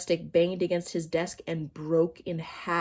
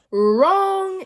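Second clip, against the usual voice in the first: much higher, loud gleeful cry; exclaimed; 12 semitones higher, 9 dB louder than usual. A narrator's reading. Teacher triumphantly exclaiming at Leslie. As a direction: pounce on the wrong answer. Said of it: "exclaimed Missus Jules".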